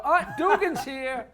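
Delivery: high, loud mock call; mother calling out. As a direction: shout it up the stairs like mom. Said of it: "my mother would go".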